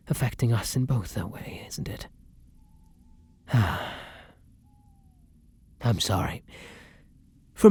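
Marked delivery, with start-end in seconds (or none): 3.5-4.0 long breath out; rueful exhale; regretful sigh. Acted. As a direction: sigh heavily before apologising. Regrets own foolishness.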